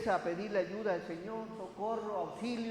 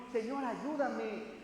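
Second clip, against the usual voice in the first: pleading; slower than usual. Acted. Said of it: "le suplicaba al Señor".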